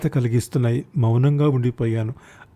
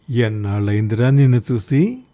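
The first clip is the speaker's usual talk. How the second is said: affectionate. Acted. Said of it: "ఆప్యాయంగా అన్నాడు వాడు".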